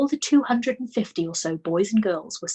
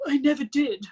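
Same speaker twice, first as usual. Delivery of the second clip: put-on higher, louder indignant boy; exclaimed; 7 semitones higher, 4 dB louder than usual. A narrator's reading. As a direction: blurt the denial. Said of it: "the boy exclaimed".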